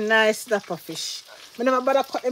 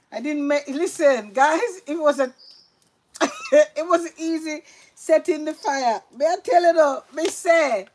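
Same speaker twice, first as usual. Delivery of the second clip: excited; 5 semitones higher, 6 dB louder than usual. Real, not acted. Excited story about lighting fire.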